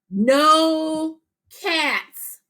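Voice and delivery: high, emphatic no cats; excited. Shown as a demonstration. Teacher reading dad's line with excitement. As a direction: say no cats with a firm, excited jump up in pitch. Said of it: "notice I used expression because it was excitement".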